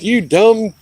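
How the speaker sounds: mock yell at the clerk; retelling the outburst at the court clerk, angry; retold outburst. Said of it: "Oh, I went nuts".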